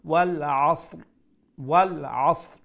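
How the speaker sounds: ওয়াল আসর with the closing r lightly sounded; light final ra. Shown as a demonstration. Teacher shows students the stopped ending, light final r on আসর. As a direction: let a faint r finish আসর. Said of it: "রাটার sound থোড়া আইতো".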